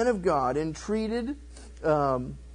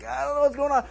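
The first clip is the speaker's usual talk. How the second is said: high, panicky retold cry; mock freak-out; 7 semitones higher, much faster than usual. King with a withered hand, mock freak-out. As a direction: act bewildered alarm with raised pitch. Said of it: "he's freaking out".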